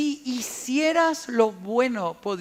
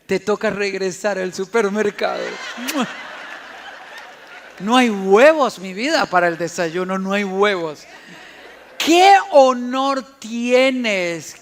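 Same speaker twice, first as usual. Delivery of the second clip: lower, honeyed teasing with a laugh; sweet wife; 3 semitones lower, 4 dB louder than usual. Retold or imitated. Patient wife sends her husband back to the store, sweetly teasing. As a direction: coax him back to the store lovingly.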